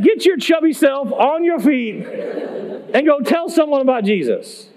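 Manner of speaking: lightly voiced coach giving orders; a hint of a drill-coach order; coach-like command. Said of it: "He coaches me".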